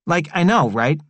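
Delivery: lightly voiced excited young guy; Tea Cake's voice. A narrator's reading.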